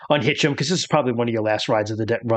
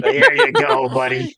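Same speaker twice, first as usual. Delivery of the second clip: far higher mock coo; 13 semitones higher, 4 dB louder, slower than usual. Game master teasing the player's horse-soothing. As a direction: echo it in a silly high voice.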